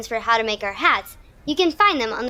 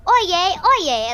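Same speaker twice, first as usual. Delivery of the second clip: town crier call; 5 semitones higher than usual. Shown as a demonstration. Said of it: "let's hear you all yell".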